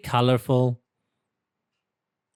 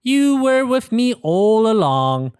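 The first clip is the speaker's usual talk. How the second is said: higher, louder joyful; happy discovery; 5 semitones higher, 4 dB louder than usual. Acted. Pete talks to the seahorse, joyful. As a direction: Pete is glad it was there. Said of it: "says Pete".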